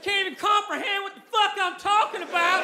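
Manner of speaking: put-on Southern-accented Einstein pleading, then giving up. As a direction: plead like an ignored redneck genius. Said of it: "if Albert Einstein had a really harsh Southern accent".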